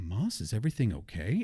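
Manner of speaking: put-on soothing check-in; imitated fake calm. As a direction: imitate her best-friend calm. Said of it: "starts talking all calm, like she's a best friend".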